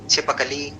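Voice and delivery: छिपकली with an audible "a" after प; schwa kept. Shown as a demonstration. Teacher shows students the full word, schwa kept in छिपकली. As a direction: say छिपकली as chhi-pa-ka-lee. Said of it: "प वाला जो आ रहा था".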